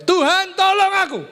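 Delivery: loud, very high-pitched shout to God; shouted cry for help. Acted. Preacher shows congregation how to cry to God, shouting. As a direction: shout it out, pleading to be rescued. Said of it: "Kamu teriak, kita teriak".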